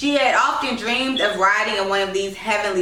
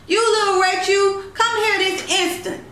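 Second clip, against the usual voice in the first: bawling grandmother; 11 semitones higher than usual. A narrator's reading. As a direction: scream across the yard at the child. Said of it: "she bawled".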